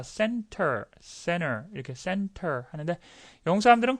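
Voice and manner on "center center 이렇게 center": American ending with firm r-coloured vowel; "center" with a strong American "er" at the end. Shown as a demonstration. Teacher shows how Americans say it, strong American R. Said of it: "미국 사람들은 강하게 합니다".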